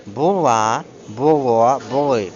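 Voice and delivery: БУЛА, БУЛО, БУЛИ each with the last syllable stressed; stress on the ending. Shown as a demonstration. Teacher contrasting past forms, stress on endings. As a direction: land hard on LA, LO, LY. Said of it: "А проте в минулому дивіться".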